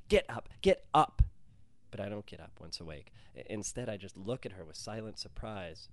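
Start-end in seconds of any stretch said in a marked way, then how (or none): 0.1-1.2 frantic high shout to wake him. A narrator's reading. Girlfriend yelling at him to get up, frantic shout. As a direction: yell it, sharp and urgent. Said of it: "Aaliyah's shouting".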